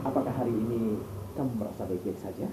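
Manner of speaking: lightly voiced suave charmer, fast; a chest voice for a handsome lead. Shown as a demonstration. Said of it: "suara, eh, su-, eh, dada gitu".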